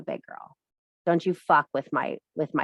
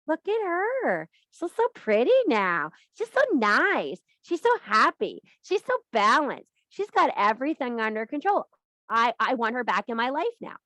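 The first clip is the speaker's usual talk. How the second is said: mock gushing ex-friend; 4 semitones higher than usual. Fickle old friends gushing about her glow, mock-awed. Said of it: "And they're like".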